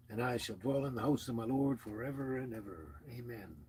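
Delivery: measured, reverent Psalm reading; scripture reading. Acted. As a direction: read it like a prayer, steady and hushed. Reads the 23rd Psalm aloud.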